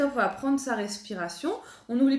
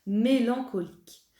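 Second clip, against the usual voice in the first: slow diction; slower than usual. Shown as a demonstration. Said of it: "la première qu'on va apprendre".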